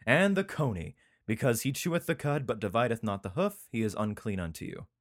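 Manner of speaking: lightly declaimed Bible verse; emphatic reading of holy law; scripture reading. Acted. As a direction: lift the opening words, then settle into recital. Reads scripture aloud.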